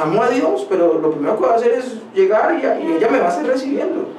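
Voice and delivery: a hint of a pleading youth; imitating young man. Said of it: "Me dijo".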